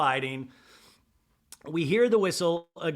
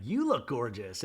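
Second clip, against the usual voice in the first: understated imitated compliment; Heather; 3 semitones lower than usual. Heather answering Meredith's greeting, understated mock compliment. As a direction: return the compliment without raising the voice. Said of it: "Heather's like".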